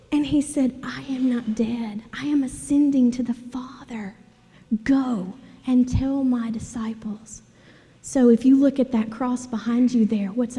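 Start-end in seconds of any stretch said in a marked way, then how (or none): 0.8-7.4 hushed, solemn words of Jesus; softly, almost whispered in parts; lightly voiced Jesus. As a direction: play a gentle, hushed risen Jesus. Voices risen Jesus speaking to Mary.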